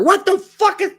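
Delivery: high, loud baffled exclamation; baffled outburst. Real, not acted. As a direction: blurt it out, totally confused. Baffled by his own reading.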